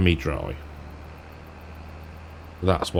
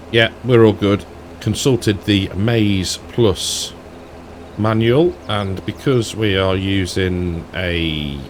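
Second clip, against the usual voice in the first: put-on light, playful Scottish accent. Farmer checking the manual mid-harvest, in a light Scottish accent. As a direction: slip into a casual Scottish accent while driving. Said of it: "Don't know why I'm doing a Scottish accent".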